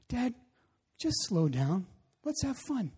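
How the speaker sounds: lightly imitated calming kid; soft retold reassurance, lifting at the end; gentle child's reassurance. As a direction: softly settle your dad down. Retells young son calming dad.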